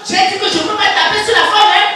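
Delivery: furious husband threatening; angry threat. Acted. Husband threatens wife in quarrel.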